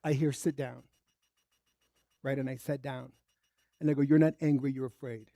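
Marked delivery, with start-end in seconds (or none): 0.3-0.8 low, very soft command; quiet voice of God. Retold or imitated. God interrupting an angry tenant's rant, hushed and low. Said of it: "there's another word for God. I hear". 4.0-5.3 hushed, sinking to very soft; quiet realisation. Retold or imitated. Tenant realising the anger is fear, quietly.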